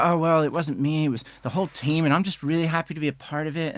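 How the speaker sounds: modest British deflection. Retold or imitated. British editor deflects American praise, lightly mock modest. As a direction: lightly play the humble Brit. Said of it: "And the person will go".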